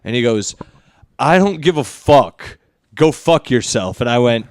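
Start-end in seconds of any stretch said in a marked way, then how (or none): 1.2-4.0 slow, deliberate mock aggression; retold aggression. Bumped stranger snaps back at the complainer, retold aggression. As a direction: imitate a guy brushing you off, drawn out. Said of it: "I'm not matching your aggression".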